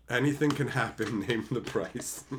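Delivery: mock voice. Mocking voice, then shouts.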